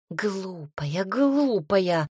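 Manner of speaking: hissing scold; cat hissing. Acted. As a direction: hiss it like an angry cat. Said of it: "зашипела кошка".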